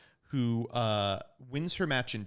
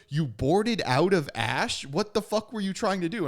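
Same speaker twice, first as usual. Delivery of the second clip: high, loud retold disbelief; stretched-out, hammed-up incredulity; mock incredulous; 7 semitones higher, 5 dB louder than usual. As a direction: imitate a baffled opponent's outburst. Retells opponents' disbelief at his choice.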